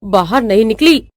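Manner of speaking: mildly grumbling mother-in-law; understated low-key carping. Acted. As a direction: grumble to yourself about her. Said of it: "सास बैठे बैठे बड़बड़ाने लगती है".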